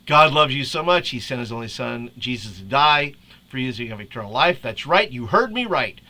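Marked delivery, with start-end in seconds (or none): 0.1-4.6 a hint of a cartoon dad voice; lightly voiced goofy dad reading a sermon; Homer Simpson reading. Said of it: "In the voice of Homer Simpson".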